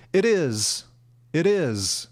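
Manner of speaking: "It is" run together as "ih-diz"; quick, linked "It is"; said really fast. Shown as a demonstration. Teacher showing the fast American way, "It is" run together. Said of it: "or really fast".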